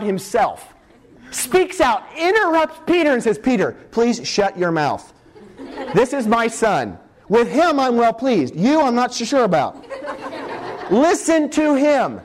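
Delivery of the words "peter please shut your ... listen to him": slow stern rebuke. Acted. God rebukes Peter, drawn out.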